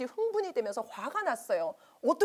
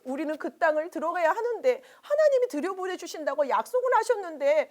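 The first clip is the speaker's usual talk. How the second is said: panicked despair; 3 semitones higher, 5 dB louder than usual. Acted. People despair at news.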